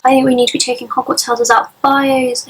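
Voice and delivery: muffled behind a hand; hand over mouth. Real, not acted. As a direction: talk through your hand. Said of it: "I've gotta got my hand over my mouth".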